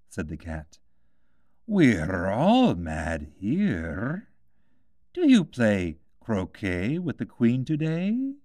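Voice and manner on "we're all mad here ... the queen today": slow, drawn-out cat voice; a sly cat pointing the way; lightly voiced grinning cat; Cheshire Cat voice. A narrator's reading. Cat replies.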